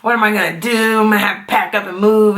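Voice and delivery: mock dismay of a husband; playfully overwhelmed, retold; joking panic. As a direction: lightly act out a joking dad's panic. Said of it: "being funny".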